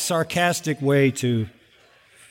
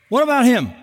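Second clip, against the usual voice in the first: Peter whining; 7 semitones higher, 3 dB louder, faster than usual. Retold or imitated. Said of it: "he says".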